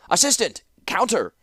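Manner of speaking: high calling shout. A narrator's reading. Clockmaker shouting for his assistant, loud call. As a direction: call out to the back of the shop. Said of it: "he shouted toward the back".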